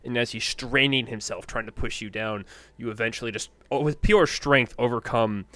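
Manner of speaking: animated match commentary; game master narration. A narrator's reading. Game master narrating the player's winning push, animated narration. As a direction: lean on the big moments of effort.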